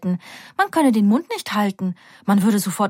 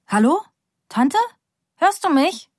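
higher, straining to be heard; calling into the phone; 8 semitones higher than usual. Acted. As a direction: call out over a bad line. Nika on a bad call. (Nika ruft ins Telefon, ob die Tante sie hört)

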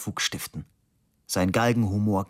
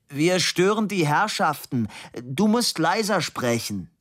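raised, high-pitched yell; mock reproach in a raised voice; bellowing; 8 semitones higher than usual. A narrator's reading. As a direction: bellow it across the bus. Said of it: "brüllte Labude".

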